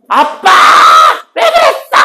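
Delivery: high, loud whining shout at dad; shouted protest. Retold or imitated. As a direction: yell it up high like a tantrum. Imagined angry outburst at father.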